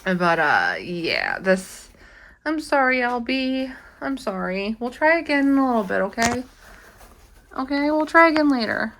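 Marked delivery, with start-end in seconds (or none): 2.4-4.8 soothing apology. Real, not acted. Apologizing to her rat. 4.8-8.9 gentle pet talk. Real, not acted. Comforting the rat after failed intro.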